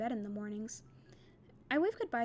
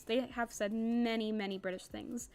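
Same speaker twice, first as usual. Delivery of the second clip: British accent; slower than usual. Shown as a demonstration. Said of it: "reading this whole thing in a British accent".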